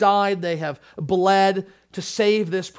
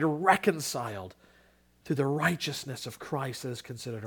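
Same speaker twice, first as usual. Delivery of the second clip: prayer; 3 semitones lower than usual. Acted. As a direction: pray humbly for the congregation. Closing prayer.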